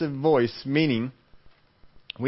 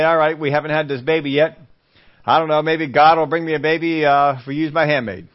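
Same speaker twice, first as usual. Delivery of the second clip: louder, driving sermon voice; preached retelling; 3 semitones higher, 6 dB louder than usual. Acted. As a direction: push it to the back row. Voicing Abraham and Sarah.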